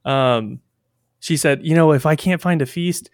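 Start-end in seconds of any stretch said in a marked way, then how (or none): 1.6-3.1 higher-pitched, lightly acted enthusiasm; excited Bleezy. Retelling a coworker's wonder at Catholic feasts, lightly excited. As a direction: quote a young coworker, a bit louder and higher. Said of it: "just kind of excited for the world".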